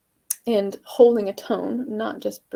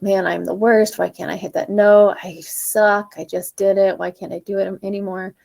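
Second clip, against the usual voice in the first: frustrated self-talk; 5 dB louder than usual. Retold or imitated. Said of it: "story in your head that's like".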